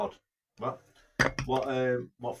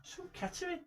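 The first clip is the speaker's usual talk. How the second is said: put-on Kettering accent; 8 dB quieter than usual. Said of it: "talks like that from Kettering".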